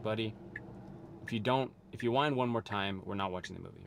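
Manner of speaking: retold calm fatherly warning; calm, loving sternness. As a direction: warn a child firmly without anger. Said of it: "very stern, but in a loving way, in a calm way".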